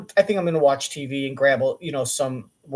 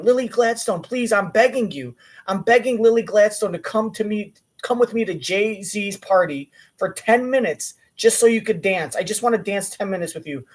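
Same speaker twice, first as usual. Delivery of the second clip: mock begging; 4 semitones higher than usual. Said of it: "DiCaprio asks her".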